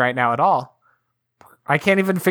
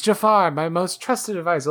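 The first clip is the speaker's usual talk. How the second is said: mock Sultan line. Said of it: "the joke on that is".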